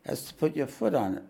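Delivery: steady read-aloud narration; lightly voiced devotee pleading; memoir reading. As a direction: read the book to the listeners.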